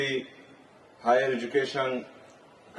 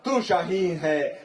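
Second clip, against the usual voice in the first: declaimed Urdu verse to a crowd; rally-stage verse recital, falling at the close; poetry recitation. Acted.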